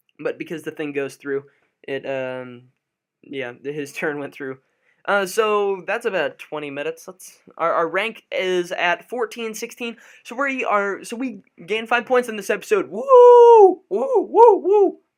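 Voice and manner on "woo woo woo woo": very high, very loud, drawn-out woo with voice crack. Celebrating gaining five points in this episode, with a voice-cracking cheer. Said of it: "That was a terrible voice crack".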